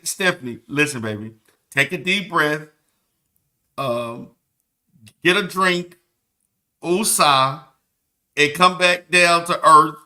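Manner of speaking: low, mock-soothing voice calming an upset friend; mock calm woosah to Stephanie. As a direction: talk her down like a patronising counselor.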